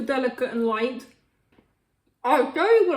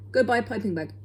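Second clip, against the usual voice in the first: fast; 3 semitones lower, much faster than usual. Shown as a demonstration. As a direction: rattle off "Go buy a piping bag" quickly as a tongue twister. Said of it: "Try and say that really quickly".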